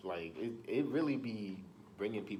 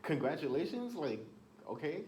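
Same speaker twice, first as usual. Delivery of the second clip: sarcastic; 8 semitones higher than usual. Real, not acted. Sarcastic reply to the quote.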